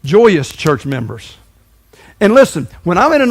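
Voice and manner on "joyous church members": very slow, weighted naming; slow deliberate contrast label; slow emphatic label. Shown as a demonstration. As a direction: let each word land slowly. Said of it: "the opposite of that is J C Ms".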